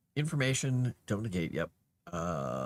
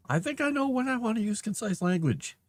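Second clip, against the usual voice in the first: higher, louder, offended comeback; indignant retort; 14 semitones higher, 4 dB louder than usual. Real, not acted. Writer answering the nagging AI tool, indignant. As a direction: bristle back at the machine's suggestion.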